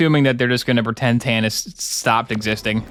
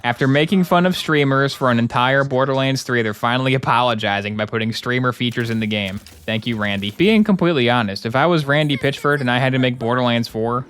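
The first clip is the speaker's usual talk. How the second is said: usual speaking voice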